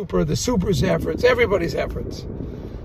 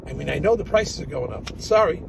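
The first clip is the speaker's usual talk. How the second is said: ordinary talk, nothing marked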